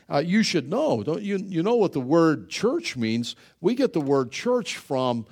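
usual speaking voice

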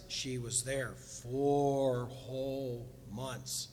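"four whole months" drawn out slow and low; slow, stressed reading. Shown as a demonstration. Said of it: "I love how the Bible says this".

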